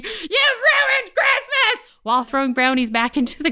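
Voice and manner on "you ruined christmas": very high, drawn-out shriek; all-out imitated scream, far above usual pitch; mother screaming. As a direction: screech the accusation slowly like a hysterical mom. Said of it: "My mom screaming".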